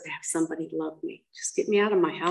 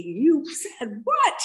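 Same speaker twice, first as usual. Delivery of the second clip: retold outraged father; 8 semitones higher, much slower than usual. Father overhearing the insult.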